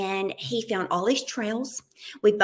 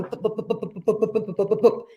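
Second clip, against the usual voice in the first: bumpy bike noise. Retold or imitated. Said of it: "So you're going".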